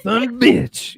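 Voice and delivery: high, loud Southern slur of the words; Southern "Son of a bitch" squashed into "sumbitch". Shown as a demonstration. Host demonstrates his Southern phrase, words mixed together. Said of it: "You mix the two words together".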